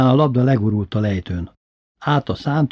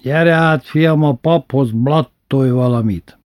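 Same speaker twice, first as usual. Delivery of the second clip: primás ordering father to the priest's piano; commanding bandleader; 3 semitones higher, 3 dB louder, slower than usual. Retold or imitated. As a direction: summon him to play. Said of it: "Memi mondta".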